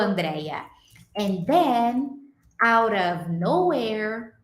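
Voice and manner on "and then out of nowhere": slow modelled phrase. Shown as a demonstration. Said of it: "eu ensino isso pra vocês".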